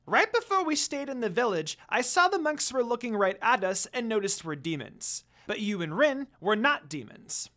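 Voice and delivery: high, loud little creature; Jakin voice. Acted. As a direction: chatter eagerly like a small imp.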